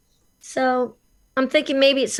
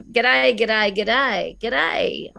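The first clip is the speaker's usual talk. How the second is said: Australian accent; much slower than usual. Shown as a demonstration. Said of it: "the accent in Australia, we open our mouths very wide".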